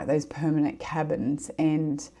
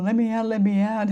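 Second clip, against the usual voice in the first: mock scream; 6 semitones higher than usual. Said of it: "but I'm screaming to her".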